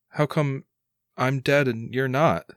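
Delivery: fearful son. Acted. Son asks dad why only he is dead, mildly fearful. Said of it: "you can see, like, actual fear in his eyes".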